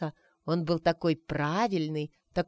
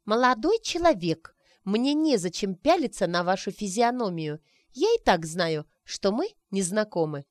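louder, prim and lofty; haughty and important; 2 semitones higher, 3 dB louder than usual. Acted. Arina snubbing the stranger, haughty. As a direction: purse the lips, play the grand lady. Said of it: "важно промолвила".

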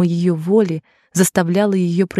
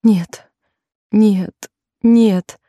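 pleading; 3 semitones higher, much slower than usual. A narrator's reading. Jennie begging Kane to stop, pleading. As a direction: beg him, each no higher. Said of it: "умоляющим тоном повторяла она".

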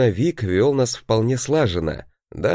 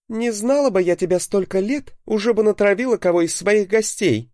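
shouting woman; 12 semitones higher than usual. A narrator's reading. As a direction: yell it from inside the house. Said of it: "Послышался женский крик".

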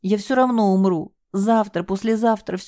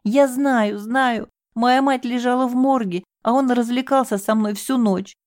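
high, raised, bitter confession; anguished outcry; 7 semitones higher than usual. Acted. Девушка с надрывом рассказывает следователю об отчиме. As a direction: hurl the truth at her.

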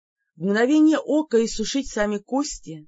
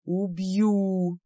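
matter-of-fact threat. Acted. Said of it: "совершенно буднично сообщил демон".

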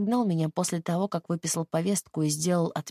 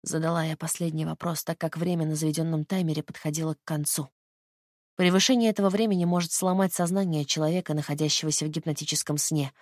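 ordinary delivery

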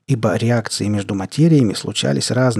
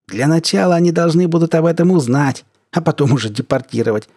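mustache twirling villain; 6 semitones higher than usual. Acted. Sly professor taunting assistant.

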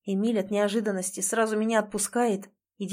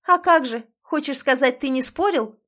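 louder and higher, accusing; loud accusing demand; angry challenge; 5 semitones higher, 6 dB louder than usual. A narrator's reading. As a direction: pin him down. Heroine presses him angrily.

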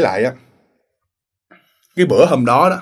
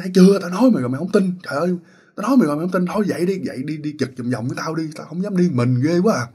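higher, urgent frightened pleading; agitated scared plea; 4 semitones higher than usual. Retold or imitated. The scared guard urges his friend to patrol with him, higher and agitated. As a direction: beg him to come along, still shaken.

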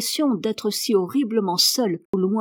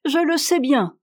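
still laughing; 6 semitones higher, 4 dB louder than usual. A narrator's reading. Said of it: "se mit à rire".

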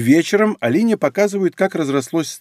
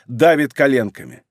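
ordinary delivery

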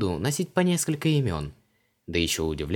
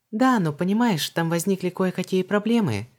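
much higher, faltering; hesitant Vanessa; 11 semitones higher, 4 dB louder than usual. A narrator's reading. Vanessa hesitates to explain to Luise, evasive. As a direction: hedge and stall, high. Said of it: "замялась Ванесса".

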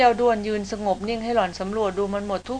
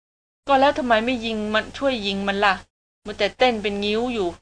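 usual speaking voice

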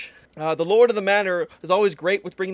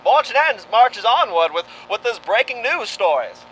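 news reporter voice; 3 semitones higher, 4 dB louder than usual. Acted. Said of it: "our news reporter voice".

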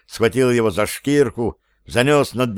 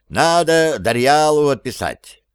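shouting; 4 semitones higher than usual. A narrator's reading. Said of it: "крикнул король".

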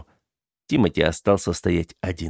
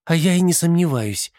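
defiant; 10 semitones higher than usual. Acted. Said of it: "с вызовом сказала мама".

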